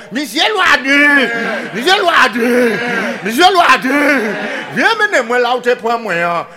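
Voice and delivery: slow, high, loud pig wail; crying pig. Acted. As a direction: draw out the pig's call like a squeal. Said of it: "les cochons qui crient". (kochon ka kriyé fò)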